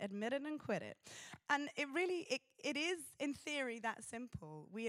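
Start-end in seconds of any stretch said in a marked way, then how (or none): 0.0-1.0 put-on a light American accent on "Admit it and quit it"; pastor's American accent. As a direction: quote the old pastor in a mild American accent. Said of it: "in his American accent".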